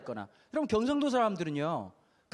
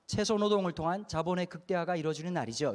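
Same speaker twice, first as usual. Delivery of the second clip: mock educated; 3 semitones lower than usual. Shown as a demonstration. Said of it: "배운 사람답게 얘기하는 거예요".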